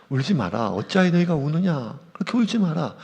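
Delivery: a hint of an angel hushing the mourners; gentle angel comfort. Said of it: "천사들이 얘기하거든요".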